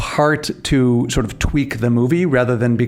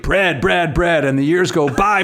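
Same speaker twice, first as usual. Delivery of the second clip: hint of a grumbling baker, no accent; lightly voiced Ronnie; 2 semitones higher than usual. Reenacting Ronnie's bread rant for a co-host, lightly voiced. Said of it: "I'm not even trying to do the accent".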